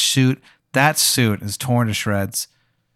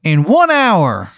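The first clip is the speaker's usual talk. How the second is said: high, slow Baltimore hon voice; Maryland accent; 9 semitones higher, 4 dB louder than usual. Acted. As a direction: stretch out "one hour" in a high Maryland twang. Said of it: "And he goes".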